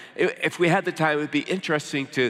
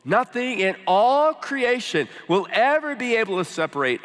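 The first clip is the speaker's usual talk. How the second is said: raised, higher-pitched preaching climax; emphatic proclamation; 4 semitones higher, 3 dB louder than usual. Real, not acted. Preacher assures congregation nothing can separate them, emphatic and raised. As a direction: proclaim it, punching the key words.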